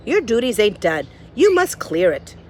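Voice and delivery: loud, bossy cook. Acted. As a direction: order her about. Cook's voice in the story.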